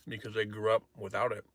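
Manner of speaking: talking with a mouth full; words round a mouthful of food. Real, not acted. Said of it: "Sorry, I shouldn't talk with my mouth full".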